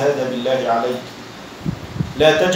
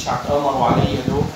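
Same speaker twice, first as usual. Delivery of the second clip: fast, low, suspicious grumbling, sinking softer at the end; imitating a suspicious paranoid man; 3 semitones lower, 4 dB quieter, faster than usual. The left-out third man voicing his paranoia, fast and muttered. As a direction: mutter it like someone sure they're plotting against him. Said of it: "هذا بقلبه بقول".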